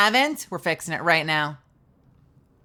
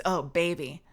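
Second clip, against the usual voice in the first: mock sultry; 3 dB quieter than usual. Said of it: "How can you make that sound so good".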